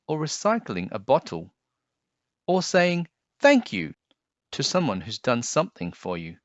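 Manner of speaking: expressive storybook read-aloud; gentle picture-book narration; reading to children. Acted. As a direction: read it like story time for kids.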